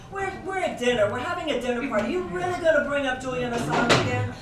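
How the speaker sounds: annoyed guest groaning at the topic again; exasperated dinner guest. Retold or imitated. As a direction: roll your eyes at the dinner table.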